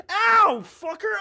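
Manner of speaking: sudden high yelp; startled ow. Real, not acted. Clawed from behind in the game, startled yelp. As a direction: yelp as you get hit.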